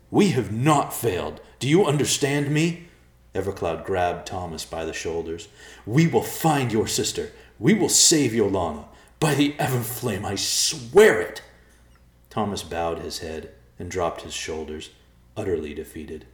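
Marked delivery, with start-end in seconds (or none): 0.1-11.4 loud determined oath; fierce vow. Acted. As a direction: swear it with fierce resolve. Evercloud vows to save her.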